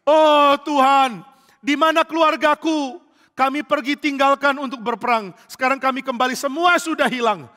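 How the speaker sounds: anguished lament. Acted. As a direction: cry out in despair, family lost. David finds family gone.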